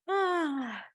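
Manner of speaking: long, high falling "ah"; contented sigh. Real, not acted. Teacher coming onto her back for curls, long sigh.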